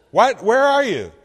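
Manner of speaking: high, loud alarmed what; shocked. Retold or imitated. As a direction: pastor startled by his wife on the phone. Shocked pastor on phone.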